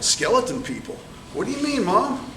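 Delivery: high puzzled question; surprised child. Acted. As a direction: ask it wide-eyed and high. Child asks mother, surprised.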